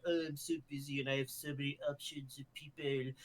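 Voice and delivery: imitating Roland in Australian accent; lightly voiced Australian accent. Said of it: "in an Australian accent".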